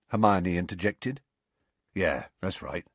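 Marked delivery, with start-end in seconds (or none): 1.9-2.9 softened. A narrator's reading. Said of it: "softened expression".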